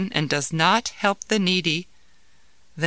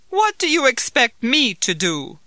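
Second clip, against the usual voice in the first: growling; 6 semitones higher, 4 dB louder than usual. Acted. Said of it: "growled the man".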